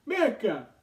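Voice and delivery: astonished retelling of the king; surprised king. Acted. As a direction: act out mild astonishment at a discovery. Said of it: "lo que le sorprende".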